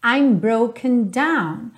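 broken said very slowly, the E barely heard, broke'n; clear slow demo. Shown as a demonstration. Teacher slowly models the lyric for her students. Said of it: "esse E não aparece muito".

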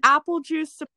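shouting with excitement; screaming. Real, not acted. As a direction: yell it out. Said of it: "I just screamed about apple juice".

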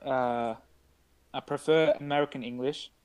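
attempted British accent, haltingly. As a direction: try talking British, feeling for the words. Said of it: "talk British for the rest of the podcast".

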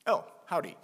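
a lightly put-on American Oh, howdy; American greeting. Shown as a demonstration. Preacher imitating an American greeting someone, lightly put on. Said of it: "sagen einfach".

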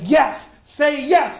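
slow, drawn-out urging say yes; inner voice. Retold or imitated. The inner voice coaxing him to accept, slow and drawn. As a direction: stretch it out gently, coaxing. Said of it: "that voice saying".

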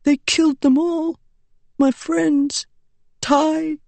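put-on high, grieving boy's voice; a dying boy naming his lost friends; hurt boy.

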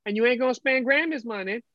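lightly voiced Southern grandma; a hint of a firm grandma lecture; stern grandma. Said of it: "you're not my grandma".

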